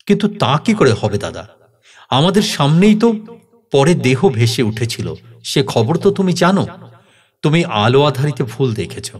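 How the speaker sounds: animated, lifting reasoning; incredulous protest. Acted. Younger brother disputes the sighting, incredulous and insistent. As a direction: argue against it in disbelief.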